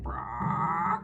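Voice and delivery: one drawn-out chicken squawk; chicken imitation. Mom showing how her daughter does chicken sounds, chicken squawk. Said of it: "like a person trying to imitate a chicken".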